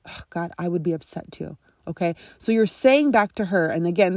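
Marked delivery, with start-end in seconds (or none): 0.0-1.5 soft sympathetic reply. Shown as a demonstration.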